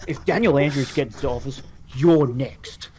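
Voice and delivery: mock-ominous political attack ad voice; lightly hammed-up election ad warning; dramatic voice. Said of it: "you gotta do the dramatic voice".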